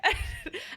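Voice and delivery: quick airy laugh; breathy laugh. Real, not acted. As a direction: laugh it out softly. Laughing mid-story.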